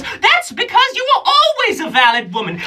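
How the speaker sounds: very high, loud, exasperated genie; sassy genie. Acted. Genie scoffing at the comic who never met one, very high. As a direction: snap at them as an annoyed genie. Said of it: "she says".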